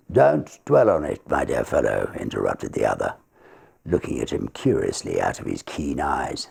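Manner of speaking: lightly voiced reassuring counsel; calm barrister. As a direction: settle the young man down. Barrister soothes secretary.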